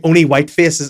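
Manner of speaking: laughing quote. Retold or imitated. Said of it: "He's like".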